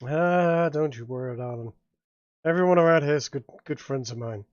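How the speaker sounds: lightly voiced roguish bar owner, reassuring; Seamus. Game master plays Seamus the bar owner.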